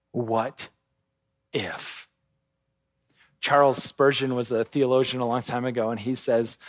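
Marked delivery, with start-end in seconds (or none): 0.1-2.1 very soft, fading, low; whispery inner voice. Acted. Preacher voicing the lying voice in the brothers' hearts, hushed. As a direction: let the doubt trail off to almost nothing. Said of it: "The voice is speaking those lies".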